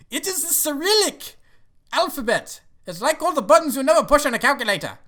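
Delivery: high-pitched, hammed-up exasperation; exasperated protest. Assistant explaining the Cyrillic alphabet to boss, mock exasperation. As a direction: imitate a flustered assistant defending himself.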